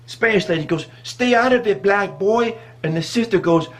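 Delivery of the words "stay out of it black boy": higher-pitched imitated telling-off; mock scolding. Spanish lady warning off the bystander, high mock scolding. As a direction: warn him off as an irate woman.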